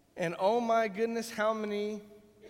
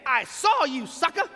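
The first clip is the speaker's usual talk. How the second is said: taunting deer voice; 6 semitones higher, 7 dB louder than usual. Retold or imitated. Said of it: "a deer is saying".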